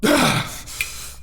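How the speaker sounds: long breathy sigh out; heavy exhale. Acted. Tommy after stopping Kimberly, heavy exhale. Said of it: "Tommy exhales".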